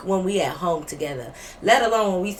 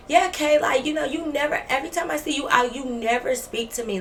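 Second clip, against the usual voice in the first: mock complaint; 5 semitones higher than usual. Friend confronts storyteller about never speaking, mock complaint. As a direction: imitate a roommate's friend complaining.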